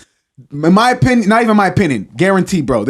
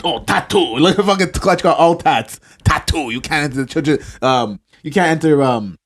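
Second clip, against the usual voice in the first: put-on poor African accent; half-hearted African accent, laughing. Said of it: "I'm not good at my African accent".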